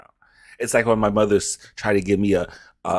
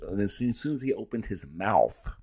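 hushed whisper; 5 dB quieter than usual. Real, not acted. Hushed build-up to punchline.

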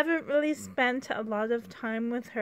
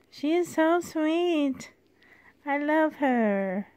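cooing; 4 semitones higher, slower than usual. Real, not acted. Cooing over the doll.

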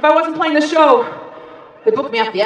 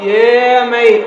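low, loose attempt at a British accent; awful British accent; 5 semitones lower, 4 dB louder than usual. American performer chats to Hull crowd in an awful British accent. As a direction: put on a bad British "mate". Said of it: "You can hear my awful accent".

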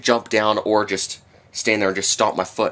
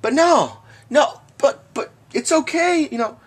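sarcastic. Pretend. Sarcastic mock reassurance.

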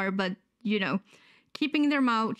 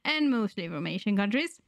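sick, wheezy voice; talking through a cold. Real, not acted. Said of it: "sorry if I sound a lit-, little bit wheezy".

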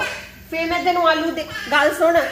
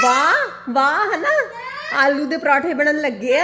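laughing cheer; 3 semitones higher, 4 dB louder, slower than usual. Real, not acted. Cheering with baby over dish.

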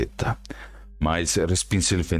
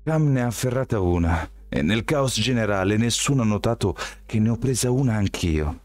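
higher voiced nervous Miles; nervous young man; 6 semitones higher than usual. A narrator's reading. Miles tells Shelby how he got it, nervous higher voice. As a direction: keep Miles higher and uneasy. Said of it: "Miles era nervoso".

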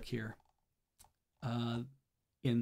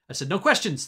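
snapping; 4 semitones higher, 5 dB louder than usual. Acted. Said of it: "the voice snapped".

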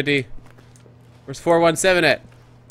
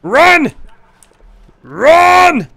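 high-pitched cry of urgency; excited gamer's yell; urgent command; 6 semitones higher than usual. Real, not acted. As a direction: yell it like urging a runner on. Urging game character to run.

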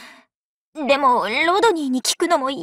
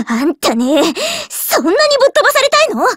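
angry threat; 3 semitones higher than usual. Acted. Threatening outburst.

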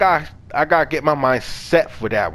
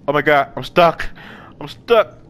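rising alarm at being stuck; panicked. Real, not acted. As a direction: gamer panicking over a glitch. Gaming panic, stuck in game.

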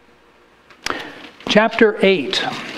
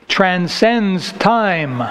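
1 slow emphasis; much slower than usual. Real, not acted. Sermon emphasis on key point.

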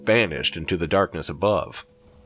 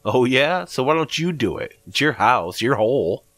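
higher, louder, defensive comeback; indignant retort; 7 semitones higher, 4 dB louder than usual. A narrator's reading. Narrator daring Greg to try it himself, indignant. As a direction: throw the dare straight back at him.

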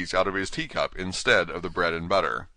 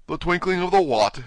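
high, loud incredulous question; king snapping back in disbelief; puzzled king interrupting; baffled demand; 11 semitones higher, 6 dB louder than usual. Acted.

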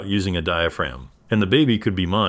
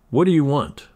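abrupt and hostile; 6 semitones higher than usual. A narrator's reading. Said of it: "my abrupt response".

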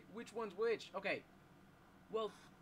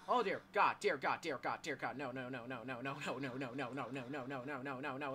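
terrified horror victim; 4 semitones lower than usual. Real, not acted. Still fleeing the monster.

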